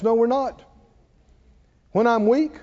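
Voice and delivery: usual speaking voice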